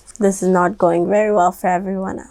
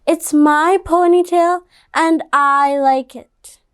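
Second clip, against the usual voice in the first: put-on defiant girl; 5 semitones higher than usual. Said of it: "Stephanie said".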